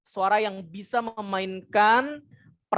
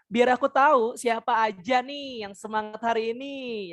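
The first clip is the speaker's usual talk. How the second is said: "Gimana nih kabar semuanya" pitched high, "Masih pada antusias" dropped lower, "Kalau antusias" lifted again; high-low intonation play. Shown as a demonstration. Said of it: "dimainin tinggi suaranya". (intonasi naik-turun, "Gimana nih kabar semuanya" bernada tinggi)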